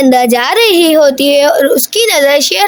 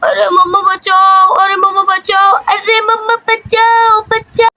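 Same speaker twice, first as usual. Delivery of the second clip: mild sing-song cry for help, rising higher; children's mock yelling; 5 semitones higher than usual. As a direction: lightly act children shouting for mother, without real volume. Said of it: "वो तीनों चिल्लाने लग जाती हैं". (बच्चों की हल्की नकली चीख-पुकार)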